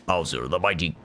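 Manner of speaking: low pirate growl for a boastful king; pirate-style Bowser. Acted. Player voices Bowser arriving, low pirate growl. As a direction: swagger in like a pirate lord. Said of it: "This is not my normal Bowser voice".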